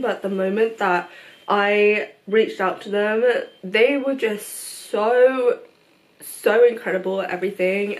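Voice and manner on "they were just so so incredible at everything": choked up. Real, not acted. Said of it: "oh my god, I have not cried in a while".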